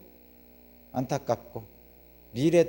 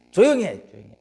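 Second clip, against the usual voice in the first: hush him up; 3 semitones higher, 9 dB louder, faster than usual. Retold or imitated. Bystanders silencing the shouting blind beggar, sharp and loud. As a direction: shush the noisy beggar sharply.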